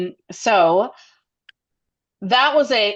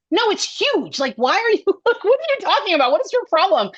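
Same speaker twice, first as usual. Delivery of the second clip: much higher, fast, half-laughing disbelief; mock exasperation with a laugh; exasperated friend; 12 semitones higher than usual. A friend teasing her at the reunion, in a high, laughing, exasperated voice.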